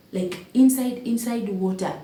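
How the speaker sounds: Inside पर ज़ोर, ऊँचा और तेज़; stress on inside. Real, not acted. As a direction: punch "inside" high and loud. Stressing how absurd the parking was.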